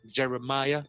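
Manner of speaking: 疑问语气念出名字; doubtful question. Shown as a demonstration. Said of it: "Is that a French name?".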